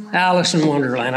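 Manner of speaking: quick, low mutter to himself as the name comes back; tossed off under the breath, remembering; muttered recall. Real, not acted. Preacher recalling a title to himself, quick low mutter. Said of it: "I couldn't think of her name".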